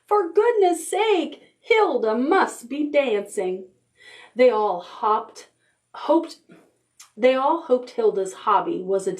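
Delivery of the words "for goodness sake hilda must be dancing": exasperated shout. Acted. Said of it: "Her friends would shout".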